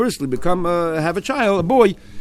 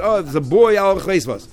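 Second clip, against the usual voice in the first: 1 excited new father; 4 semitones higher than usual. Retold or imitated. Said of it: "you're all excited".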